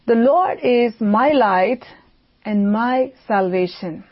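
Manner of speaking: emphasize the word "my"; stress on MY. Shown as a demonstration. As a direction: lean on "my", drawing it out in a slow opening phrase. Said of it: "I want to highlight or emphasize the word my".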